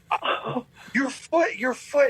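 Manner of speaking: high-pitched imitation of a tearful wail; mock crying panic. Storyteller imitating the guide seeing the foot fall off, mock crying panic. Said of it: "He starts crying".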